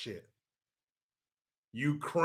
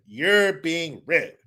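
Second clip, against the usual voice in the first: slow mock scold; 2 semitones lower, much slower than usual. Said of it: "That's what she said".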